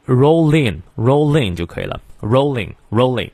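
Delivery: "roll in" run together as "rolling"; linked reading. Shown as a demonstration. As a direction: link the L of "roll" straight into "in". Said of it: "连读". (“roll in”连读成“rolling”)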